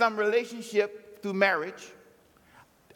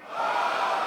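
Jehoshaphat cry. Shown as a demonstration. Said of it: "we're gonna do a little Jehoshaphat cry".

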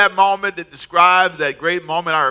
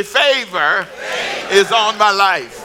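shouted declaration; 3 semitones higher, slower than usual. Shown as a demonstration. Preacher showing the congregation how to say it right, shouted slow. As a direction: proclaim it with full conviction. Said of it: "if you really wanna say it right".

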